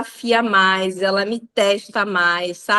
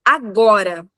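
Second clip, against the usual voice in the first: louder, insistent little-kid order, imitated; demanding child; 4 dB louder than usual. Mom quoting her daughter demanding the diaper, bossy child. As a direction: lightly mimic a bossy small child. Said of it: "e falou".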